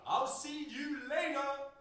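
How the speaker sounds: "later" said with a glottal stop, no T, high, loud, slow; dropped T later. Retold or imitated. Poet back in the UK calling goodbye, T dropped in "later", loud. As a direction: sing out "later" Cockney-style with no T. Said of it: "lost the T in later".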